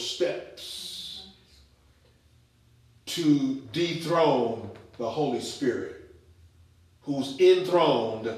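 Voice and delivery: slow, soft prayer voice. Acted. Preacher prays for the congregation, slow and soft.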